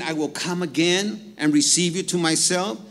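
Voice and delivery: "again" lifted and stressed; emphasized words. Shown as a demonstration. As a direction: lean on "again" with a rising lift. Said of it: "Church, let me emphasize".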